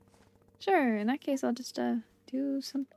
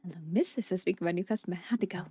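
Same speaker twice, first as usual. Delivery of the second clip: a hint of a calm lower shopkeeper voice; lightly voiced shopkeeper; 5 semitones lower than usual. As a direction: play the unhurried shopkeeper, a bit lower. Voicing Bora, lower slow voice.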